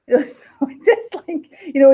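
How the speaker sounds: laughing through the words. Real, not acted. Author laughing at her own TV rage, giggly. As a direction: giggle while explaining.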